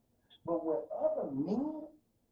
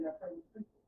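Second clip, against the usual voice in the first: God's quiet command; 9 dB quieter, much faster than usual. Acted. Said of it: "God said".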